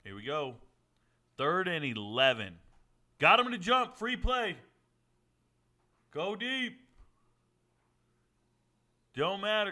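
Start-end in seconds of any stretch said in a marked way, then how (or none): 3.2-9.7 high, loud game hype; excited shout. Real, not acted. Streamer watching the game, yelling excitedly at the play. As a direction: cheer the free play like a fan. Live reaction to football play.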